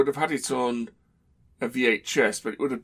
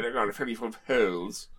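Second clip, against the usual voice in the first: put-on slipping British accent; faster than usual. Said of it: "they're saying".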